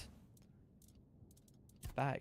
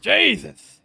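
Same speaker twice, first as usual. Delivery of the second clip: loud, high shocked cry; stunned exclamation; 8 semitones higher, 13 dB louder than usual. Real, not acted. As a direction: blurt out in disbelief. Boss dies.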